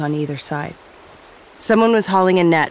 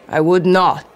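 biting back; 6 dB louder than usual. Acted. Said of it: "Sauveterre bit back".

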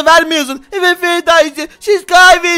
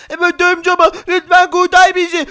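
put-on lightly raised child voice, relieved and grateful; a spider boy thanking his dad, a little higher; spider kid; 3 semitones higher than usual. (hafif ince sesli örümcek çocuk)

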